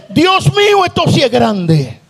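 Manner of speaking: high calling out, then settling; retold calling out. Imitating the sister calling out from the back of the church. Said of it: "una hermanita que vocea por allá atrás".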